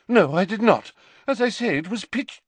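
put-on an eccentric old prophetess recounting; dreamy seer. A narrator's reading. Trelawney voice.

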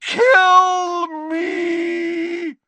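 agonized high scream; yelling Dumbledore. Acted. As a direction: wail it out at full pitch. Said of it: "than he yelled".

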